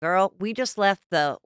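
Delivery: lightly put-on Southern accent; a hint of Southern-girl accent, unhurried. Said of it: "say it with a Southern accent".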